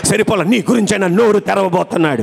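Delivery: insistent, repetitive sermon cadence; preacher building through repeated phrases; fervent preaching. Acted. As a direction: proclaim a promise with mounting urgency.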